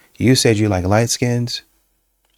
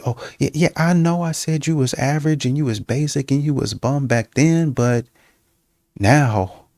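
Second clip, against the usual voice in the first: imitating sweet-talking woman; 5 semitones higher than usual. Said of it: "women that speak like this".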